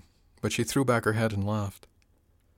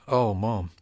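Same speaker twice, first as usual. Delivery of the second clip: relieved; 4 dB louder, slower than usual. Acted. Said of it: "Her voice was filled with relief".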